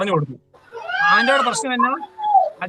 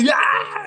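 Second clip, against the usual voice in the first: joyful cry; 12 semitones higher than usual. Acted. Joyful cry after verse.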